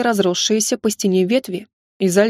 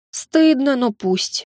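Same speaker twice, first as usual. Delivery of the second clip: plain reading voice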